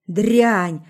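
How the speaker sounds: loud, angry growl of a word; a sudden furious growl; growled insult. A narrator's reading. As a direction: bark it at her in rage. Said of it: "рыкнул он".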